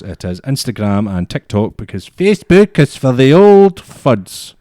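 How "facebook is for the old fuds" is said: high, loud, slow put-on jeer; mocking. Explaining why they skip Facebook, mocking put-on voice. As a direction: drag it out in a silly high voice.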